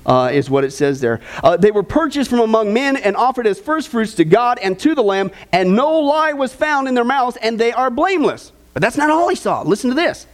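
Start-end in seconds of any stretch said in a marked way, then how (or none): 1.6-8.5 lifted, measured Bible reading to the congregation; scripture reading. Acted. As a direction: read the verses out like a preacher at the pulpit. Reads scripture aloud.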